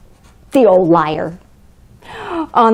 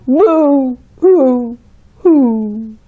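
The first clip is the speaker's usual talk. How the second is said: mock boo hoo; much slower than usual. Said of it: "will all cry".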